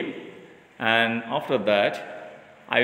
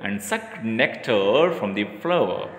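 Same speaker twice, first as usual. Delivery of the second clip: lively storybook reading for a class; animated classroom storytelling; reading to children; 3 semitones lower than usual. A narrator's reading. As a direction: tell the tale to young pupils, bright and clear.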